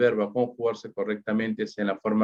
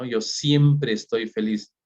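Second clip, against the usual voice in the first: traducción lenta; slower than usual. Shown as a demonstration. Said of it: "Fíjense cómo hablamos en español".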